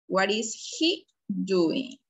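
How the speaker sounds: measured, unforced classroom repeat. Shown as a demonstration. Teacher repeats question lower, less drawn-out.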